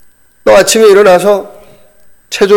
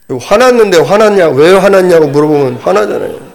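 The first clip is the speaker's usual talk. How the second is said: mock anger. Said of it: "막 화가 났어요".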